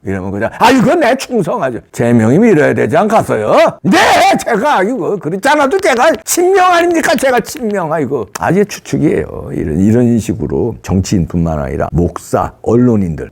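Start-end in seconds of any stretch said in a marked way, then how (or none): 0.6-7.9 groveling yes-man. Acted. Groveling victim pledging loyalty.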